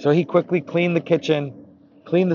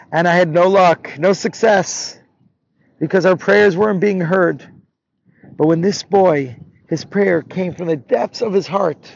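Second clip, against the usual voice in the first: higher, impassioned explaining; fervent; 5 semitones higher, 4 dB louder than usual. Acted. Baal Shem Tov defending the boy's prayer, fervent. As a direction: press the point with conviction.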